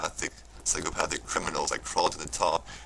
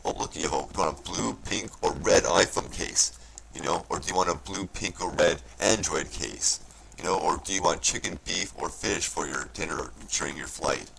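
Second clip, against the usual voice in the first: mocking salesman voice.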